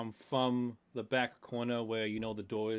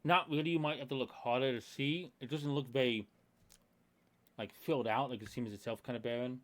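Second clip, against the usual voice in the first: talking with a mouth full of food; chewing while talking. Real, not acted. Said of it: "Are you talking with your mouth full?".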